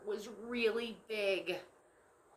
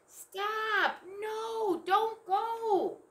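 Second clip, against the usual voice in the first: high urgent shout to stop; shouted warning; 13 semitones higher, 6 dB louder, much slower than usual. Acted. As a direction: yell it out to stop her.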